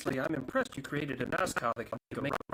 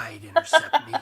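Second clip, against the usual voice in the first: high, loud, through laughter; manic laughing boast; 14 semitones higher, 9 dB louder than usual. Acted. Raptor answering its own question, high laughing shout. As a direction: burst out laughing on the words. Jet cackling at its own line.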